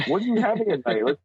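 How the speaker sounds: jokey, incredulous cajoling; playful begging. Retold or imitated. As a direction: wheedle your kid to share. Jokingly asking his kid to share.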